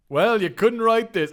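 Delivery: mock amazed storyteller; mock disbelief. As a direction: savour the absurdity slowly. Disbelief at comic rain.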